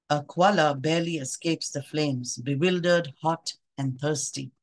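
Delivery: poem reading. Acted. Reads a poem aloud.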